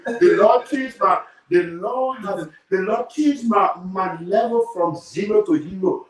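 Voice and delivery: high testimony with stretched words; exuberant praise. Real, not acted. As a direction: proclaim your rise, slow and high. Exuberant praise for changed fortunes.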